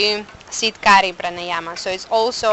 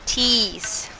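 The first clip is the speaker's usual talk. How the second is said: drawn-out s like a snake. Shown as a demonstration. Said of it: "making this sound like a snake sound".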